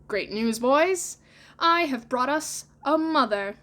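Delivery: high, loud proud news; excited announcement. Acted.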